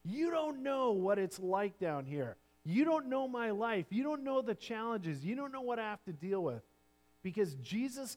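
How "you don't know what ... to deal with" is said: shaking fist at God. Pretend. People complaining to God about their hard lives, mock defiant. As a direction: protest like someone fed up with heaven. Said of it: "shake our fist at God".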